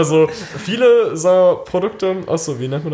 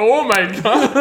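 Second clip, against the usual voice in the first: surprised; 8 semitones higher, slower than usual. Real, not acted. Exclamation at video.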